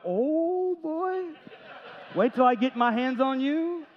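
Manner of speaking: high, hammed-up delight at the dirty sink; mock eager dishwasher. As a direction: play the gleeful fan of dishes, with a laugh. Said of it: "look at a full sink and go".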